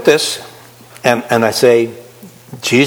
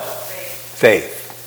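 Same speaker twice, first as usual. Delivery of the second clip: soft answer; 4 semitones lower, 6 dB quieter than usual. Shown as a demonstration.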